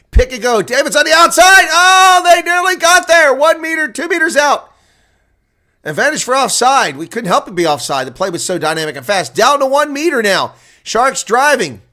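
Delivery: thrilled commentator shouting as the Sharks near the line; excited play-by-play. Real, not acted. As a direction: call the drive like the try is coming. Try-line drive, nearly scores.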